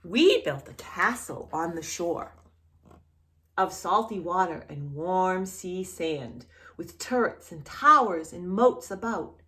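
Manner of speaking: gentle storybook reading voice; reading to children. A narrator's reading. Teacher reading a picture book to a small child, gentle storybook voice.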